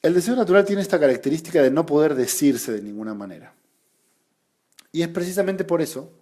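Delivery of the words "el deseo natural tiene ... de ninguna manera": quoted reading. Shown as a demonstration. Teacher quoting Lacan to the class, formal citation read. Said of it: "Cito, cito textual".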